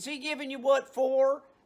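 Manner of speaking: loud, high, folksy put-on country accent. Retelling a question you asked someone back then, in a country accent. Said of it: "And then I did it with a country accent".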